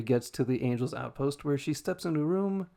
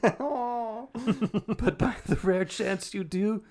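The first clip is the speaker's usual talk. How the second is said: snooty voice; 7 semitones higher, 4 dB louder, slower than usual. Acted. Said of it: "a fucking snooty voice".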